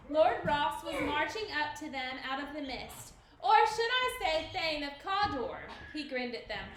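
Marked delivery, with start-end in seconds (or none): 3.4-5.7 bright, teasing greeting; cheery. A narrator's reading. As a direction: cheerfully announce the news. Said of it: "came a cheery voice".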